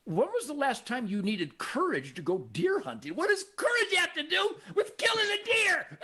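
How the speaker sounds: building to a high, laughing shout; incredulous retort. Retold or imitated. Hunter answering those who call him coward, incredulous shout. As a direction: start incredulous, end in a high-pitched mocking holler. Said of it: "I go".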